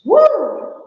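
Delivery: high, loud startled whoop; woo. Acted. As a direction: whoop at the stink and flee. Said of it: "And he goes".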